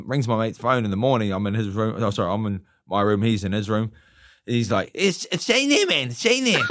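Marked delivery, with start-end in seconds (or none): 4.9-6.6 high-pitched, louder boxer's voice; Mike Tyson impression. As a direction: imitate the champ in a high voice. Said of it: "you have got his voice down well".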